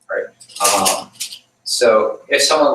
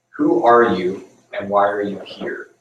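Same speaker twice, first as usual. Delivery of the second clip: slow, measured call out of the darkness; mysterious voice in the dark. Retold or imitated. Unseen voice challenges the wandering rabbi, slow and grave. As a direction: ask it slowly, like an unseen voice.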